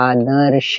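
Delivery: आदर्श stretched to show र between द and श; sounded out. Shown as a demonstration. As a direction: draw out आदर्श, half र before श. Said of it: "र कहाँ रहा". (आदर्श को खींचकर, आधा र दिखाते हुए)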